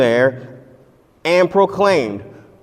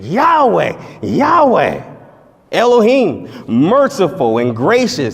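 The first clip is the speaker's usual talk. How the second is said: proclaiming divine voice; slower than usual. Acted. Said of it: "No, he said".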